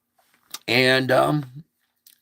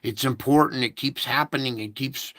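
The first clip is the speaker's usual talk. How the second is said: begging the doctor. Retold or imitated. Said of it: "I'm begging my doctor".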